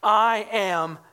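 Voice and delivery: "I am" said deliberately, punched and set apart; emphatic I AM. Retold or imitated. Prophet giving his answer to the delegation, emphatic "I am". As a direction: lean into "I am", then hold back.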